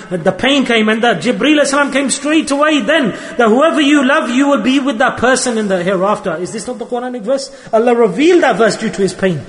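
urgent sermon delivery with rhetorical questions; impassioned preaching. Real, not acted. Preacher urging believers not to be ashamed, impassioned. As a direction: preach it forcefully, driving each point home.

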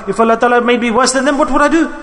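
a retold cry of fear, climbing in pitch; anguished plea. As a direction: plead up high, as if terrified. Man's crying plea retold.

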